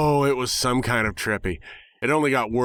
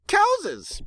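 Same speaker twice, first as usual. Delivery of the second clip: much higher cry of the word Cowses; gleeful pony shout. Acted. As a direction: squeal it like a delighted cartoon pony. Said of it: "Pinkie cried".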